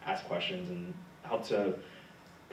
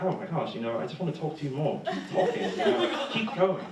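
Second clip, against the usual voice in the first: gushing fan; 8 semitones higher, 4 dB louder than usual. Retold or imitated. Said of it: "they're just like".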